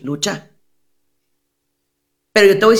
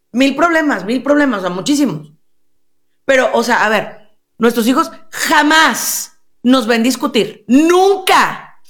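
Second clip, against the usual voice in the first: a higher, put-on voice of a prim wife boasting; mock proud wife; 4 semitones higher than usual. Therapist mimics a mother in session, higher and smug. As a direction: play the smug mother who swears they never argue, pitched up. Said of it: "La señora así está sentadita así".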